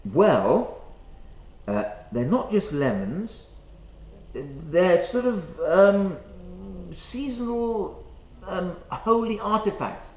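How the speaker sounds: acted awkward hesitation, groping for words; tentative, stop-start mock explanation; halting explanation. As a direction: explain sheepishly, with long ums and pauses. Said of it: "I had to explain to her".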